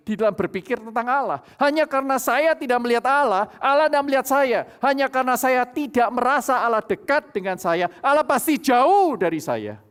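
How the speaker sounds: loud, emphatic sermon delivery; a preacher rebuking sinful thinking; forceful preaching. Acted. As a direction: hammer the lesson home to the church.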